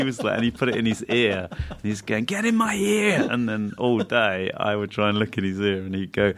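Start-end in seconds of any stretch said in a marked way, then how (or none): 2.2-3.3 much higher, slow comic voice; silly voice. Retold or imitated. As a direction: coo it to the cup like a pet. Fulcher voiced, absurd gag.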